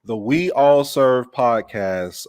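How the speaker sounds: big, slow drawn-out welcome; enthusiastic host welcome. Real, not acted. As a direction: open the show with gusto. Host opens episode with hype.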